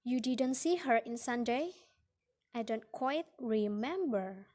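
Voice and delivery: swooping pitch on "remember"; hesitant tune with a wavy "remember"; fall-rise of hesitation. Shown as a demonstration. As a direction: lift "Sunday", then swing the pitch on "remember". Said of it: "in hesitation or reluctance".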